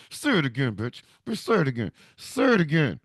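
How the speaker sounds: low, tight menace through clenched teeth; wife daring grandma through her teeth; through gritted teeth. Acted. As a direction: grit it out, daring her to repeat it. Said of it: "talking through her teeth".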